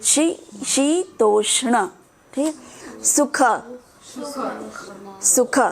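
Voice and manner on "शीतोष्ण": शीतोष्ण said slowly with weight on the final ण; stress on ण. Shown as a demonstration. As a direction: lean on the ण in शीतोष्ण. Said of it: "जिस पे जोर लगाना है".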